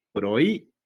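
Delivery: "prohíbe" with the I pushed up and held before "be"; stressed I. Shown as a demonstration. Teacher showing the hiatus, stress on I. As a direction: lift the I in "prohíbe", then pause. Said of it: "la vocal tónica es la I".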